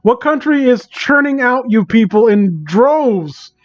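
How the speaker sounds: high-pitched, theatrical despair at the whole crowd; exasperated rant. Real, not acted. Streamer rants at the people making this content, high theatrical despair. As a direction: wail it like the last sane man alive. Ranting at fans of bad content.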